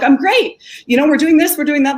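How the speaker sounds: chirpy canned interview answer; fake-cheerful press answer to dad; media answer. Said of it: "I gave him my media answer".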